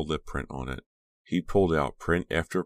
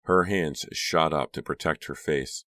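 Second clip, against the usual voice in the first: plain reading voice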